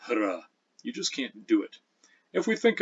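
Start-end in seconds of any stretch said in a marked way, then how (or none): 0.1-0.4 hra with H pronounced straight into R; sounded hr cluster. Shown as a demonstration. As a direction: isolate the hr onset as hra. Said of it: "no longer allowed in English to start".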